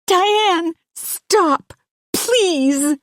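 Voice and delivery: high, loud desperate plea; terrified mother begs the intruder to stop; pleading. A narrator's reading. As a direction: beg her to stop, frightened. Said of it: "Hannah is pleading with Diane to stop".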